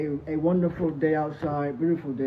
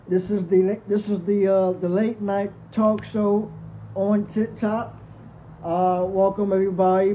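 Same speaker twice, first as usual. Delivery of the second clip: talk show host; 3 semitones higher, 4 dB louder than usual. Pretend. Host welcoming viewers to his late night TikTok show, announcer-style.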